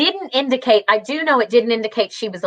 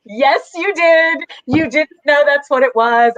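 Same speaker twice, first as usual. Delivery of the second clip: insistent; 4 semitones higher than usual. Retold or imitated. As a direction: imitate a friend firmly correcting her. Friend insists in retold argument.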